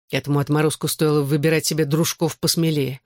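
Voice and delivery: ordinary delivery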